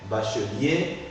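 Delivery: bachelier as "ba-che-lier", three syllables; mute E pronounced. Shown as a demonstration. Teacher models bachelier for student to repeat, E articulated. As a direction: keep the E before -lier in bachelier. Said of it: "j'articule le E muet".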